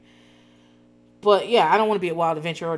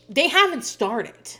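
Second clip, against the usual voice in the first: slow, louder insistent repeat; retold scream; 6 semitones higher, 5 dB louder, slower than usual. Daughter insisting to her dad the work hasn't started, slow and upset. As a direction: spell it out to him, upset. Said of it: "she's starting to scream".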